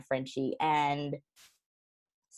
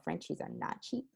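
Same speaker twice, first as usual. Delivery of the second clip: whispered aside; 5 semitones higher, 10 dB quieter than usual. Real, not acted. Aside on price.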